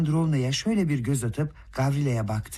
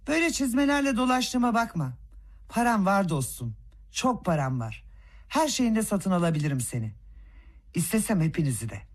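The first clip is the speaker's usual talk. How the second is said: put-on growing drunken swagger; 4 semitones higher than usual. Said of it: "Gittikçe coşuyordu Rogojin".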